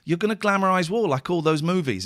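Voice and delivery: mildly heated, retold telling-off; mock fury. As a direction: imitate a furious wife's accusation. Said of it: "she was furious with him".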